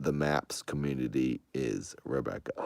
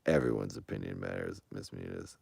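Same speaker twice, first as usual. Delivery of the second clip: soft spoken; 7 semitones lower, 7 dB quieter than usual. Real, not acted. Held soft voice.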